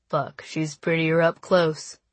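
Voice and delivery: slow, lazy cocky guy voice; lightly voiced cocky boy; West. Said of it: "West said as he tilted his head".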